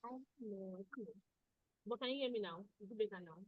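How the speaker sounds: faint, far from the mic; barely audible. Real, not acted. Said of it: "I'm just hearing you very faintly".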